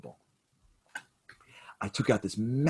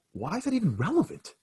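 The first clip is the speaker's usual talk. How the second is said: much higher, incredulous protest; agitated disbelief; 12 semitones higher than usual. Retold or imitated. Son protesting to the old man, rattled and incredulous. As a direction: push back in exasperation. Son frantic, father's friend questioning.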